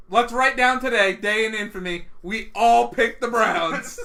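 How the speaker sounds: loud, slowing mock-solemn announcement; mock proclamation. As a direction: proclaim it like a historic event, tongue in cheek. Mock proclamation of historic day.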